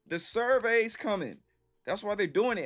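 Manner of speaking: heated emphasis. Real, not acted. Lecturing coworkers about the survey.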